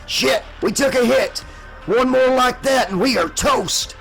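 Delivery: high-pitched shout under fire; alarmed shout. A narrator's reading. Pilot warning crew after a hit, high alarmed shout. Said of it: "Warlock shouted".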